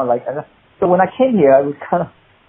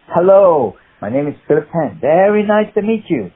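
higher-pitched put-on Chinese accent; hammed-up audition hello in a Chinese accent; 5 semitones higher than usual. Actor introducing himself to casting, performed Chinese accent. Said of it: "with a Chinese".

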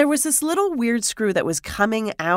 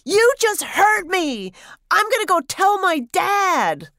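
retold kid shouting in a bathroom; imitating a child's scream; 9 semitones higher than usual. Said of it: "screamed out super loud".

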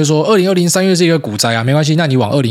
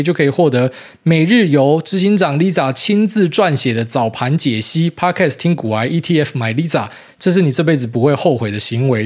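ad read; 2 semitones higher than usual. Acted. Reads listener's mock fund ad.

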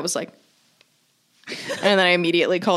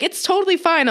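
breezy mom; 10 semitones higher than usual. Retold or imitated. Mom voiced dismissing worry.

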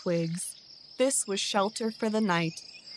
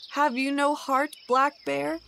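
higher, pleading voice of a starving father; a desperate father begging, pitched higher; begging badger; 4 semitones higher than usual. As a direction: plead with the bear for your children. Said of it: "begged the badger".

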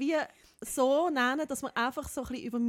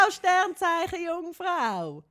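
laughing through the punchline, louder and slow; can't hold the laugh finishing the quote; 5 semitones higher, 4 dB louder, much slower than usual. Retold or imitated. Retelling the friend's line while laughing, louder.

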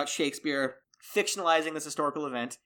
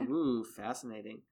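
lower, softer sarcastic ooh; 5 semitones lower, 6 dB quieter than usual. Real, not acted. Reacting to co-host's upcoming topic, sarcastic. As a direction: feign interest, quietly and drily. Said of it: "you sound sarcastic".

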